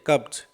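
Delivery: "कब्ज" with a voiced z/j ending; Z sound at the end. Shown as a demonstration. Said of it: "last में जय". ("कब्ज" के अंत में ज की आवाज़)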